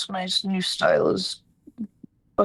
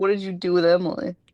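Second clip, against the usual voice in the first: normal talking voice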